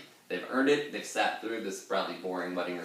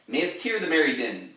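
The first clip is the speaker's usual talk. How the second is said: higher, louder declaimed line; theatrical reading; 6 semitones higher, 5 dB louder than usual. Shown as a demonstration. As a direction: recite the verse with a flourish. First reading of quote.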